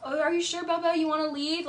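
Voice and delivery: playing innocent, sweetly mocked; imitating Schwartz's fake concern to Katie. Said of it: "I hate how he does that".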